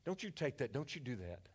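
low, soft aside to the grandson; hushed grandpa advice. Retold or imitated. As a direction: quietly coach the boy not to give in. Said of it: "When I heard that, I said".

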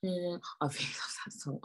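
slow whisper; whispered love for the song. Real, not acted. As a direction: breathe it out softly. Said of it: "I really love that song".

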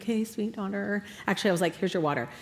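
soft, restrained mother voice; mock gracious. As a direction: hand it over with thin patience. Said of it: "I'm so holy and gracious".

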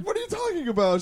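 high, playful denial; a hint of faked innocence; feigned innocence. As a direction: play dumb innocently. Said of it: "I was like".

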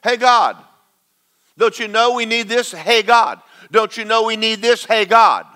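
lightly mocking the begging churchgoer; mock whiny pleading. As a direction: pester God like a needy child. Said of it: "that's what goes on every Sunday in church".

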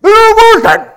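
high, loud surprised cry; stunned realization. Retold or imitated. Father to mother after pressing brakes, stunned cry. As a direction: gasp as the brakes suddenly work.

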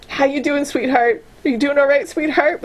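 lightly voiced sugary nurse asking if you're okay; a hint of a cooing caretaker; mock gentle voice. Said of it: "With this, like, really gentle voice".

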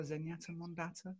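put-on a light Geordie accent. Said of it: "Gotta say it in a Geordie accent".

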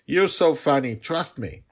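put-on a playful kid brushing off worry; cheerful little girl. A narrator's reading.

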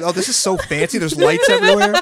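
laughing through fake amazement; laughing mock awe. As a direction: gush about it through laughter. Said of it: "it was like".

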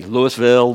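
Louisville with the S sounded, LEW-iss-vill; outsider's pronunciation. Shown as a demonstration. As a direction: say Louisville like an outsider, "Lewis-ville". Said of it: "you can always tell when someone doesn't".

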